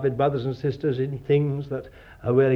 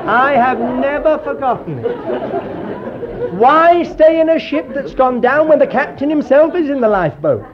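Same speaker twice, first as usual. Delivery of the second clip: high and louder, laughing through the words; 10 semitones higher, 7 dB louder than usual. Real, not acted. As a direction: get the line out while still laughing. Laughs through his punchline.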